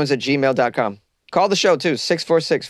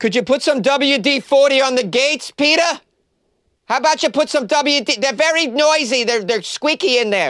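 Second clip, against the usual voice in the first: very high, put-upon, annoyed griping voice; 12 semitones higher than usual. Performing a bit about the squeaky gates of heaven: St. Peter's wife impression, annoyed. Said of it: "That was my impression of St. Peter's wife, who's annoyed".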